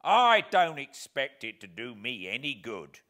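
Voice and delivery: loud, slow, with a gloating laugh; greedy glee. Acted. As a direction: chuckle greedily over his revenge. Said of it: "with a greedy laugh".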